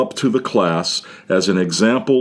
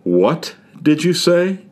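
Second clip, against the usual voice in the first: high, sharp mother's warning; mother catching her child out, pitched high; stern mother demanding an answer; mother's special tone; 8 semitones higher than usual. Retold or imitated. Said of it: "in a very special tone of voice".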